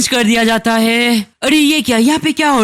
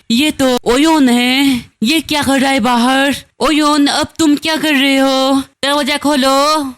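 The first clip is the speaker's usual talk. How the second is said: higher-pitched, lightly acted astonishment; a touch of alarm, pitched up; mild surprise; 4 semitones higher than usual. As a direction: question it in a raised, puzzled voice. Acted surprise at who is outside.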